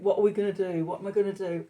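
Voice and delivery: mild mock panic. Woken at four in the morning by worries, mild mock panic. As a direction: play at fretting, only lightly worked up. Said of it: "four o'clock in the morning in a panic".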